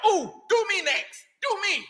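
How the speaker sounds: high, excited mock plea with a laugh; eager congregant. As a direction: beg to be picked like a giddy fan. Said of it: "They like".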